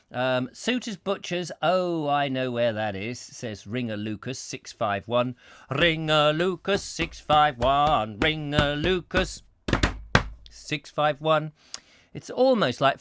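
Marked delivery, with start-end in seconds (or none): 5.7-11.5 slow, drawn-out slogan delivery; hammed-up slow jingle; advert jingle. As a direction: announce it like an old advert, stretching the words. Repeats the name as old advert.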